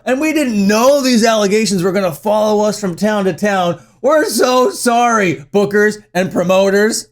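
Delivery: hammed-up sarcastic "so sorry"; mock a grovelling apology, dragging the sorrys; exaggerated, insincere apologizing. Mocks the band's apology.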